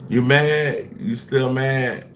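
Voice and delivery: high, slow mocking taunt. Real, not acted. Streamer to angry chat, mocking and taunting. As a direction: needle them, drawn out.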